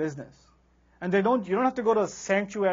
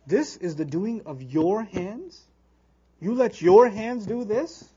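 angry rebuke; slower than usual. Shown as a demonstration. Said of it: "that's an unusual level of rage".

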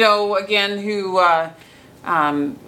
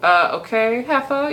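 mock-sassy kid talking back, a bit higher; sassy kid comeback; 7 semitones higher than usual. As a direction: toss off the insult like a cheeky schoolboy. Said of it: "And he's like".

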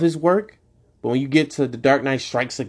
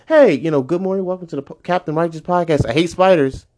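mock podcast intro; 4 semitones higher than usual. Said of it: "imagine every episode I open up".

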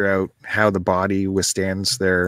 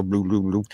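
drum sound imitation; 4 semitones lower, 4 dB quieter than usual. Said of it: "only the famous drummer's style".

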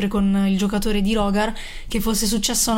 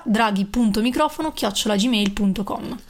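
repeating the email address clearly, ending on a rise; dictating. Shown as a demonstration. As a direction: read the address again, word by word. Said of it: "La ripeto ancora".

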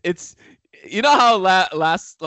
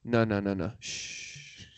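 soft, lower mock brush-off; dismissive shushing; 6 semitones lower, 10 dB quieter, slower than usual. Co-host acting LeBron silencing his coach, soft and dismissive. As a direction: cut the coach off quietly, ending in a shush.

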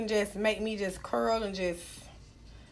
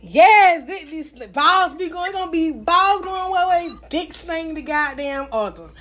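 excited; 4 semitones higher, 5 dB louder than usual. Real, not acted. Hyped gray pants joke.

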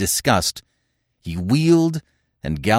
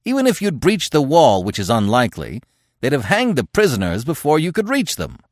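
exasperated; 6 semitones higher than usual. Acted. Conan argues back at the old chief, exasperated. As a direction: push the point home forcefully. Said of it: "roared the exasperated Cimmerian".

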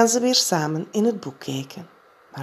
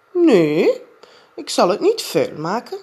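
Jip's voice; 5 semitones higher, 6 dB louder than usual. A narrator's reading. Jip answers, child voice.

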